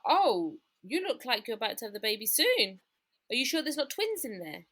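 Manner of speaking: imitated amazement, loud swooping "oh"; surprised teacher. Nursery teacher eyeing a big bump, imitated surprise. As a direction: act out a teacher marvelling, pitch leaping on the question. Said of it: "And she was like".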